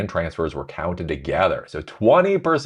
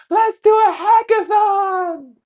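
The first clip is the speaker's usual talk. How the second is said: mock cheery boss; 6 dB louder, much slower than usual. Mocking Zuckerberg's cheery announcement.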